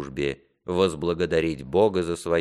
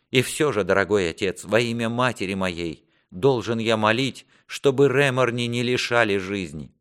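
higher-pitched, earnest appeal; pleading prince; 5 semitones higher than usual. Acted. Prince begs father for Реморни's life, earnest pleading. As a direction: press the plea with feeling.

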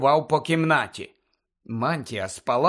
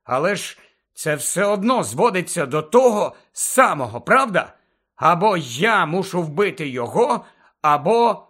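restrained arguing; 3 semitones higher than usual. Acted. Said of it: "докладав геройських зусиль, аби не здавалося".

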